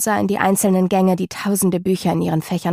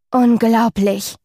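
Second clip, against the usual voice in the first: slow, drawn-out awe; awed; 3 semitones higher, 4 dB louder, much slower than usual. Acted. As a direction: savor the word in wonder. Staunend in der Bibliothek. (staunend und gedehnt)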